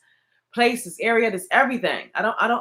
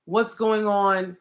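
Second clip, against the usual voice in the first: stern warning; 2 semitones lower than usual. Retold or imitated. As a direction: warn them off, building heat. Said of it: "sometimes you just like".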